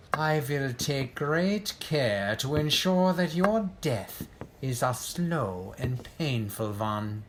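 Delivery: normal talking voice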